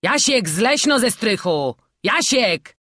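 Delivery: loud, high, stretched shout; urgent summons; calling out. A narrator's reading. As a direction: holler up to the attic. Calling boy down from attic.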